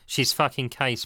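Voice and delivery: slow and bitter. Acted. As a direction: spit it out slowly, bitterly. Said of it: "Paul said bitterly".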